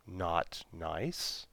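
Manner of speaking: low, soft, halting alien voice; awkward alien accent. Acted. Alien answering Maddie, in an awkward alien accent. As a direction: stiff alien voice, lightly done. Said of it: "intoned the alien in an awkward alien accent".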